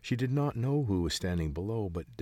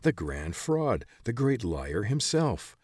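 scornful; 4 semitones higher, 4 dB louder, slower than usual. Acted. Old man denouncing the fraud.

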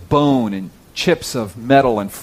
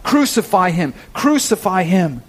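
raised, preacherly cry of the mob; higher, insistent mock outcry; crowd's cry; 6 semitones higher than usual. A narrator's reading. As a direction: call it out like the crowd, within a reading. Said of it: "they cried out".

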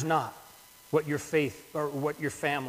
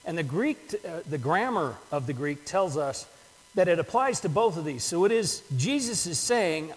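normal talking voice

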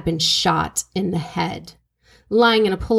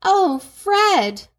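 mock scream, higher pitch; retold scream; 10 semitones higher, much slower than usual. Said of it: "and someone screaming".

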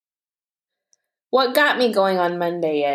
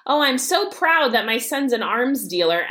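mock-proud, pitched higher; sarcastic pride; 4 semitones higher than usual. Mom retorting to her son's career plan, sarcastic pride. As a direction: gush with obvious sarcasm.

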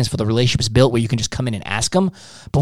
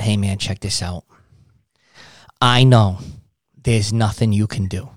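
defeated; 4 semitones lower than usual. Shown as a demonstration. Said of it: "Act defeated within their means".

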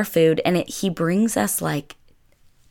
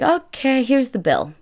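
typical Italian man; 8 semitones higher than usual. Retold or imitated. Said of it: "and he's like".

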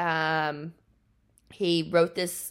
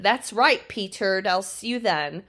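strict nurse; 2 semitones higher, 5 dB louder than usual. Retold or imitated. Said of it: "Nurse Zena's strict voice".

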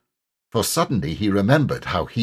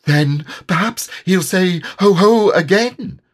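anxious Piglet; 9 semitones higher, 6 dB louder than usual. A narrator's reading. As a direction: fret it out like a scared piglet. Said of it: "suggested Piglet anxiously".

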